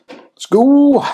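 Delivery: high, energized start call; excited shout. Real, not acted. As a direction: kick off the race with a cheer. Starting the timed challenge.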